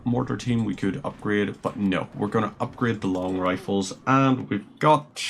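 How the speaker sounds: ordinary talk, nothing marked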